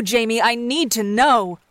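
slow mock-desperate demand; fake hysteria. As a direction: lean on the final know, hammed up. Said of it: "in mock hysteria".

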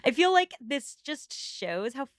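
a hint of a fake-sweet society lady cooing; Augusta impression. Podcaster imitates Augusta gushing over a shared secret, lightly voiced. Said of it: "Our listeners love your Augusta impression".

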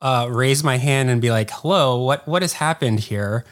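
a flustered, half-mock "what is happening" voice; retold confusion. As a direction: replay the panic of not knowing what's going on. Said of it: "So I was like".

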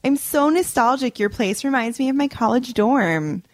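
high mock-wistful opening; passive-aggressive. Guest judging the host's place, high fake-nostalgic passive aggression. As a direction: deliver a dig as a sweet compliment. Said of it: "there's only one more".

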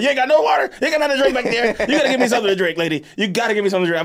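mock desperate plea for a drink; pleading demand. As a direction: beg the flight attendant hard. Begging flight attendant for water.

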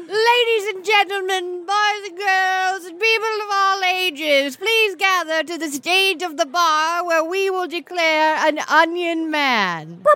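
grand emcee announcement; announcer voice. Acted. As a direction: announce it to the whole bar. Emcee announcing the Onion Man.

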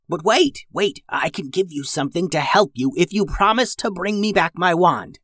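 put-on high, eager old witch. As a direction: bargain with the children. Old witch voiced in story.

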